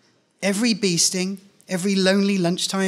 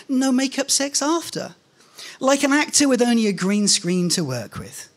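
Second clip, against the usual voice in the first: smug superstar; 6 semitones higher than usual. Acted. Narrator's smug superstar answer.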